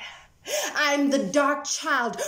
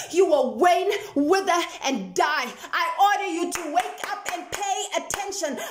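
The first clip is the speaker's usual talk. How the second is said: commanding; 5 semitones higher, 3 dB louder than usual. Acted. Poem, commanding crescendo.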